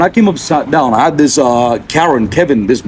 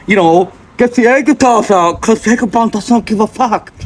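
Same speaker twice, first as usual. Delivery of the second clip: raised, hyped-up boast; hype man voice; 7 semitones higher than usual. Pretend. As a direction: pump yourself up like a hype man. Hyping himself up in third person.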